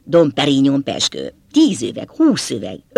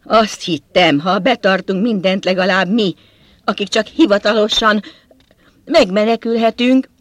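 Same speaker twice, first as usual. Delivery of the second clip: high-pitched tearful whine, narrated; whimpering; 5 semitones higher, 5 dB louder than usual. A narrator's reading. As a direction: whine it high, as if starting to cry. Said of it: "és vinnyogva sírni kezdett". (vinnyogva, sírós, magas hangon)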